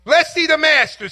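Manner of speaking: a bidder yelling to hurry the sale; impatient shout. Retold or imitated. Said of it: "someone shouted".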